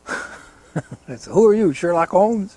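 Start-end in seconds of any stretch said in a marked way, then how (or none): 1.3-2.6 higher, louder comeback with amusement; mock retort. Beginner answers the stranger's insult, mock indignant. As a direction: toss back a sarcastic question.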